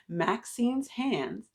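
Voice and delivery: drawn-out, deliberate title; title repeated slowly for listeners; slow title reread. Shown as a demonstration. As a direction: savor each word again. Rereading title after audio check.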